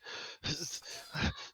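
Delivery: soft, long exhale; quiet, airy sigh in character; captive's sigh. Acted. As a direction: let out an acted breath. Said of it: "and he's like".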